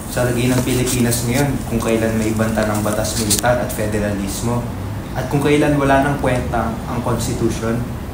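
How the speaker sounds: loud, earnest appeal; impassioned plea. Acted. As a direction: plead passionately for the truth. Impassioned plea about social duty.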